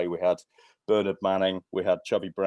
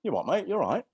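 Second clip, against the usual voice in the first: much higher, cheeky comic voice; squeaky mock of the comedian; Bobby Ball's voice; 11 semitones higher than usual. Bobby Ball answering the guard at the gate, high and cheeky. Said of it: "And he went".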